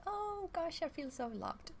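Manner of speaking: high, giddy little voice of happy cells; delighted cells. Pretend. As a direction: squeal as your cells feeling loved. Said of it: "our cells come alive and it's like".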